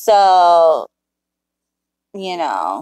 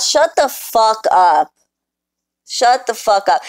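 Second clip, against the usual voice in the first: slow angry shut up; 3 semitones higher than usual. Real, not acted. Telling the troll off.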